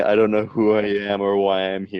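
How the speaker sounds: mock-dramatic brooding antihero, shouted end; edgy brooding hero. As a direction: ham up an angsty killer hero. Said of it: "kind of brooding sometimes or, like, edgy".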